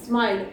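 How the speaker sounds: 'स्माइल' starting directly with the s; correct 'स्माइल'. Shown as a demonstration. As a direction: model a clean sm onset in 'स्माइल'. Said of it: "it is not smile, it is smile". ('स्माइल' बिना इ लगाए, सीधे स् से)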